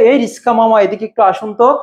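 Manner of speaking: lightly mimicked stylish rickshaw hail; understated mock-stylish call; mildly stylish talk. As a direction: call the rickshaw man with a touch of affectation. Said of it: "style দিয়ে কথা বলার কারণে".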